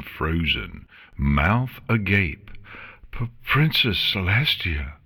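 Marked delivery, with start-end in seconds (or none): 3.1-4.9 stammering, pitched up; stuttered. Acted. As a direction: trip over the title in awe. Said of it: "she stuttered".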